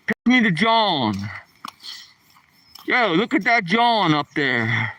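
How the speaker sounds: "John" said as Philly "jawn"; Philadelphia accent. Shown as a demonstration. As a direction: show off the Philadelphia way of saying "John". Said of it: "That's that Philadelphia accent".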